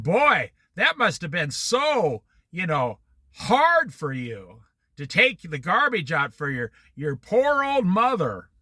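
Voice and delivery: slow mock sympathy; sarcastic mother. Mother mocking her son's hard garbage chore, slow sarcastic sympathy. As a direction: pity him with a wink, slowly. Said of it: "She's very sarcastic type of woman".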